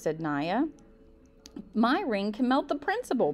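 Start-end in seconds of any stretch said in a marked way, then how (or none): 1.7-3.3 1 blurted out. Acted. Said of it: "blurted Hobson".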